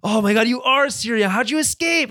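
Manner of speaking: high, loud gasp of amazement; mock astonishment. Recapper acts out Arya's imagined reveal of Syrio, astonished.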